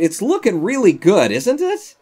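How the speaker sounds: loud, high, breaking into a laugh; hammed-up delight, squeaking up on the question; over-the-top self-praise.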